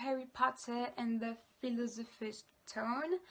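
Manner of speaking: slow English title in a French accent; careful, drawn-out French-accented English. Real, not acted. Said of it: "désolée pour mon accent".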